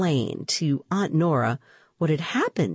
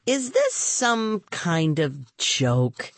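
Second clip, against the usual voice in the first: panting, slow; puffed from running; out of breath; much slower than usual. Acted. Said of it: "Rima came panting after me".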